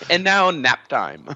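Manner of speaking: slow mock announcer, laughing. Friend mocks long stories with a slow announcer line. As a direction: drawl it out like a bored TV host. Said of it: "an edit in where it goes".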